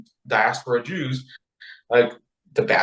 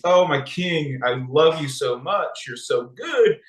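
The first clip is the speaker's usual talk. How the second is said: lightly hammed-up gushing, lifting high; flattering queen; 3 semitones higher than usual. Queen flattering her king at the banquet, mock-gushing. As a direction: imitate a queen sweetly buttering up her king. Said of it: "we do the same nice, same niceties".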